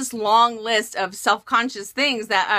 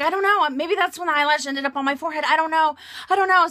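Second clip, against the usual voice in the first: laugh-cry coming; 5 semitones higher, faster than usual. Retold or imitated. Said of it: "again, the laugh cry coming out".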